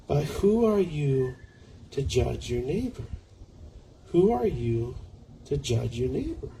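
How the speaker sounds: solemn reading with weighty pauses; scripture reading. Acted. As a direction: read the verse out deliberately, letting phrase endings drop. Reads scripture to congregation.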